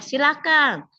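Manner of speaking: lightly voiced coach giving the floor; coach inviting. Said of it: "kalau kosnya".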